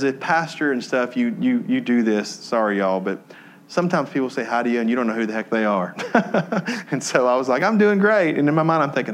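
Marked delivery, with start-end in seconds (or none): 3.7-6.9 laughing confession. Real, not acted. 7.6-8.4 fake cheer. Faked cheerful reply.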